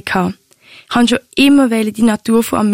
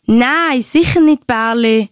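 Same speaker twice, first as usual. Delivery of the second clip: verliebt beteuernd; slower than usual. Retold or imitated. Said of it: "hat's amix etwa so tönt".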